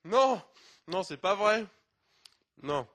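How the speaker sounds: loud, high cry of disbelief; shocked disbelief. Real, not acted. Presenter hearing three pancakes are left, shocked. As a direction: burst out as if it can't be true.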